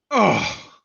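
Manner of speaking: high groan sliding down; dismayed groan. Retold or imitated. Janitor discovering a filthy stall, dismayed groan. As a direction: groan like a man finding a mess.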